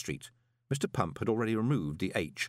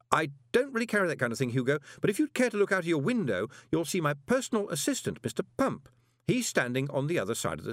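high, bright-toned salesman's patter; Moist, breezily confident; 5 semitones higher than usual. Acted. Moist greets Hugo through the speaking tube, confident and hearty.

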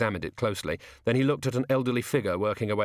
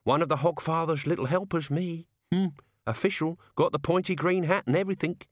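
leering; 7 semitones higher than usual. A narrator's reading.

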